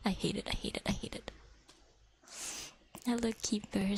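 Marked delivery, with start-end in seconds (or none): 0.1-1.3 softer and softer, ending in a whisper; fading disgust. Real, not acted. Disgusted at bugs, trailing off into a whisper. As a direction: let it die away to a whispered I hate it.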